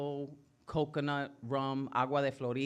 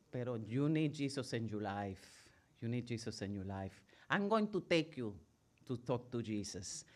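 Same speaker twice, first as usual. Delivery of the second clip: softer, lower stern grandmother; stern grandma; 4 semitones lower, 5 dB quieter than usual. Retold or imitated. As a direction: press it on her quietly and firmly. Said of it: "she'd be like".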